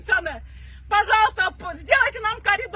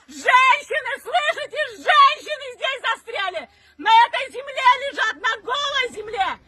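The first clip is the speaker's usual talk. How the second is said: crying out; 2 semitones higher than usual. Real, not acted. Desperate appeal for stranded women.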